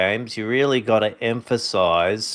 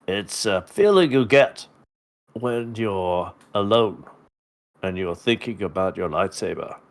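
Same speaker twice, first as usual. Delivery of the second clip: parody Obi-Wan. Acted. Parody Obi-Wan talking to Luke.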